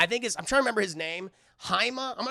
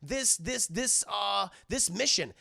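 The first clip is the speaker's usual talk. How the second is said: higher-pitched mock scolding; pissed-off retelling; 5 semitones higher than usual. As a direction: imitate her telling off the boss. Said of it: "because she's pissed. She's like".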